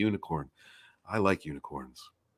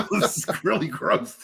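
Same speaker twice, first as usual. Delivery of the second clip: disgusted; 8 semitones higher, slower than usual. Real, not acted. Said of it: "I really feel disgusted right now".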